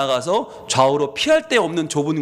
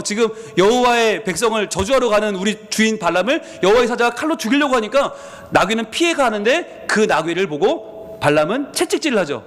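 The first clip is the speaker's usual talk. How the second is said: normal talking voice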